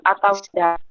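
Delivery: choppy, breaking-up call audio; glitching robot. Real, not acted. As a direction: voice cutting in and out. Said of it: "Suaranya putus-putus". (suara putus-putus seperti robot)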